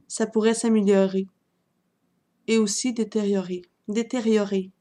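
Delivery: measured poem recital with pauses between lines; poem reading. Acted. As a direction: read your love poem aloud, line by line. Reads own love poem aloud.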